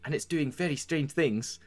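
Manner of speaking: a put-upon lady scolding her helpers; a lady laying out her troubles, half scolding; weary noble lady. Acted. The lady to the party, weary and scolding. GM holds lady NPC monologue.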